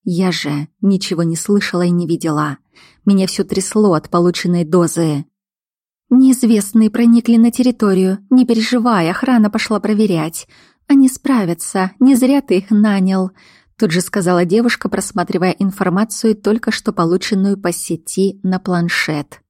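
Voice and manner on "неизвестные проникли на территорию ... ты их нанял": higher-pitched, brisk-minded report; businesslike woman. Acted. Young woman tells the boss about intruders, reassuring. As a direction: reassure him in a raised pitch.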